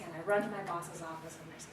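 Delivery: usual speaking voice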